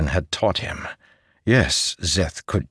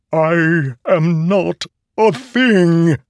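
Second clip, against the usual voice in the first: high, loud, slow and certain; emphatic declaration; 10 semitones higher, 5 dB louder, much slower than usual. A narrator's reading. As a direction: claim it with full conviction. Sword affirms itself.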